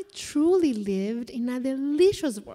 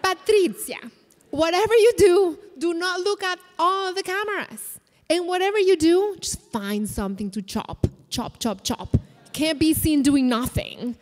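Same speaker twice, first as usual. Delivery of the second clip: TV producer advice; 4 semitones higher, 3 dB louder than usual. Retold or imitated. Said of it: "The only advice from the T V producer was".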